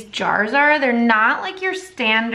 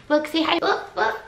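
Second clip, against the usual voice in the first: coaxing dog talk; 5 semitones higher than usual. Real, not acted. Showing her dog to viewers.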